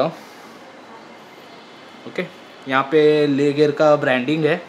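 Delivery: muffled behind fabric; speaking inside a helmet; through a face mask. Real, not acted. Seen 0: Balaclava covers mouth throughout; helmet goes on from 13.3s.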